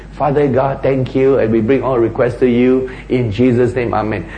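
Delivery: even, understated praying, little rise or fall; calm prayer. Acted. Showing listeners how we pray when we become sophisticated, calm and composed. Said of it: "we just pray very calmly".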